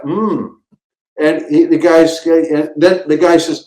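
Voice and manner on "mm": tasting hum. Retold or imitated. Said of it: "And I go".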